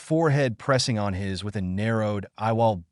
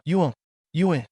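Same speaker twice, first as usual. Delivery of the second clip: moaning; 6 semitones higher, faster than usual. Acted. Midna during the kiss, moaning. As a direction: let the words dissolve into a moan. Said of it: "Midna moaned".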